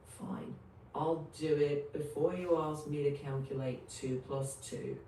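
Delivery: over-the-top sarcastic AI voice; sarcastic robot monotone. Acted. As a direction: sneer it like a fed-up bot. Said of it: "sarcastic A I voice".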